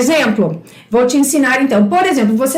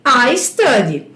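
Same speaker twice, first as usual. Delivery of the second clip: slow teacher demo; 3 semitones lower, slower than usual. Shown as a demonstration. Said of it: "eu estudo".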